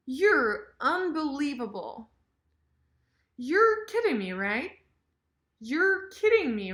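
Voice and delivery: lively exclamations with "You're" as yer; casual reduced "You're". Shown as a demonstration. Teacher rehearses reactions with casual yer, reduced "You're". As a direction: shrink "You're" to yer, pitch leaping high. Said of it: "with this casual, fast yer".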